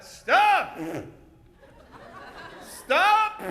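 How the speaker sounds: high, sharp hero's command; hero's yell. Shown as a demonstration. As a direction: yell it out like a stage hero. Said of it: "yell out".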